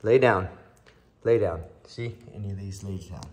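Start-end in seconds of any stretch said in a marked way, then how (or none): 0.0-1.6 loud, firm command; firm dog command. Shown as a demonstration. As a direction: bark the command out. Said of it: "I give the command like this".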